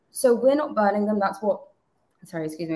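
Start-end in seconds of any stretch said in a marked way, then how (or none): 0.1-1.6 words catch as water goes down wrong; sputtering mid-sentence after a sip; choking on a drink. Real, not acted. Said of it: "I just choked on my water there".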